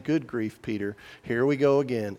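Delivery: mildly shaming; put-upon, understated mock reproach; Jesus. Imagined Jesus to Peter after he sinks, mildly shaming. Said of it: "shaming tone of voice that Jesus would be saying".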